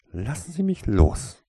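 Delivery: loud, high protest; calling out. A narrator's reading. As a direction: cry out to be released. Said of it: "rief Toriesa".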